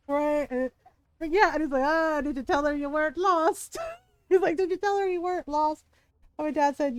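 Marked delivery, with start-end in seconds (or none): 1.8-3.8 imitated teasing Scottish local; higher-pitched mock Scottish ribbing; Scottish accent. Scottish local teasing dad about his wife, imitated accent. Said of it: "full, full Scottish". 4.6-5.8 higher, imitated Scottish teasing; Scottish accent. Scottish local teasing the lost dad, imitated accent. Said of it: "full, full Scottish".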